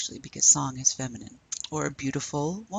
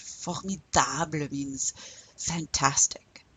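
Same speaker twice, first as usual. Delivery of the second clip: whisper; slower than usual. Shown as a demonstration. Teacher whispers the translation.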